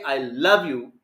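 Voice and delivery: "love" stretched and falling in "I love you"; stress on LOVE. Shown as a demonstration. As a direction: lean into "love". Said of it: "I'm emphasizing that word love".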